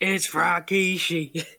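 drawn-out commentator's exclamation; slow, hammed-up announcer cry. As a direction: stretch the name out in mock ringside shock. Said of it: "as J R would say".

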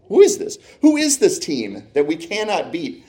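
a fan who can't believe what he sees; stunned disbelief. Retold or imitated. Exasperated fan asks about rival team.

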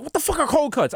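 high-pitched mock bafflement; imitating baffled aunt. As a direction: play the aunt, incredulous. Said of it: "And she was like".

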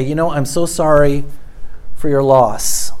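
low, softened sympathy; tender, subdued sympathy; gentle condolence. Retold or imitated. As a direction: offer condolences gently and quietly. Condolence to bereaved families.

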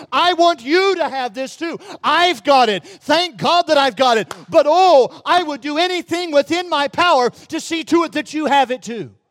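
building to a loud outcry; fervent preacher plea. Retold or imitated. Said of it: "saying to other people".

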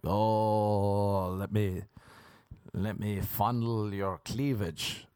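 slow dirty talk in a played-up Irish accent; own accent played up. Showing dirty talk with an accent, played-up slow Irish accent. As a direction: stretch it out in a thick Irish accent. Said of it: "With my accent".

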